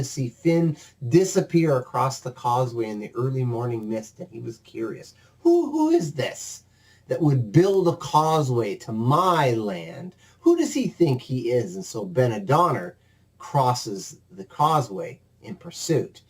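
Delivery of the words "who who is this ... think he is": a sleepy Scottish giant wondering aloud; puzzled giant. Acted. Giant wonders who built a causeway, puzzled. Giant voiced waking curious.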